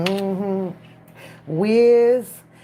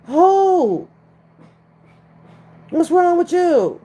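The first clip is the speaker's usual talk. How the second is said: much higher, louder voice to the growling pet; high pet talk; 10 semitones higher, 4 dB louder than usual. Real, not acted. Fussing at a growling pet at home, high and loud. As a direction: coo and scold the dog in a high voice.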